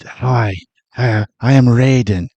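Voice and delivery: hint of a mediocre Asian accent; mock Asian accent. Mimicking Raiden greeting the fighters, mock Asian accent. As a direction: breathe out through a lightly faked Asian accent. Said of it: "Why are you giving him an accent?".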